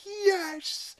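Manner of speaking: high mock triumphant yelp; imitating Peter. Telling the Rushmore scene, mimics Peter in a high gleeful yelp. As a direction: squeak out a gleeful yes. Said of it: "Peter's like".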